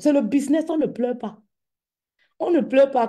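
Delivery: rally them: no crying in business; firm rallying slogan. Real, not acted. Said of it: "repeats slogan".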